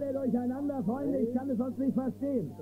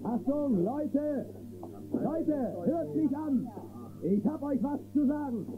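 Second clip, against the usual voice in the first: raised voice calling a crowded saloon to attention; higher, calling the room to listen; 4 semitones higher, slower than usual. Acted.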